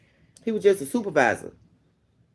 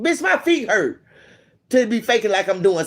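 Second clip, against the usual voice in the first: exasperated whine; 5 semitones higher than usual. Retold or imitated. Complaining about faking work.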